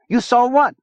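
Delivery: high, loud, incredulous question; startled demand. A narrator's reading. Zona demanding what Chia saw, startled. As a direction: pounce on the revelation.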